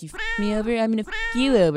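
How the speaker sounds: mock tough guy. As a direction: ham up a cheesy revenge line. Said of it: "Everyone was just like".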